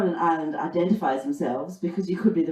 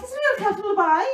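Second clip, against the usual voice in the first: much higher mock confusion; mock ditzy; faster than usual. Comic voicing her ditzy coworker, pitched high. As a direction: play the clueless dancer. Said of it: "I'm like".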